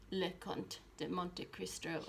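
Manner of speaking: a light, slow attempt at a French accent; bad French accent. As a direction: try the French title in a half-hearted French accent. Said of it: "I tried to have a bad, um, French accent".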